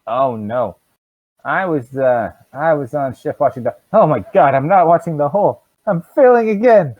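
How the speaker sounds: rising into a loud, high fluster; guard suddenly remembers he abandoned his post; panicked guard. Acted.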